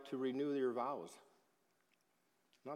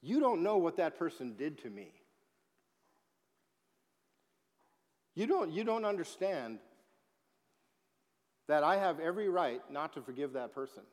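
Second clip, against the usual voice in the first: higher and louder, mock-aggrieved; indignant protest; 5 semitones higher, 7 dB louder than usual. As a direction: voice the hurt person insisting on their right. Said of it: "you and I now want to say".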